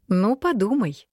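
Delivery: slow, amused smirk. A narrator's reading. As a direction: say it with a knowing smirk. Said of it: "усмехнулась Вера".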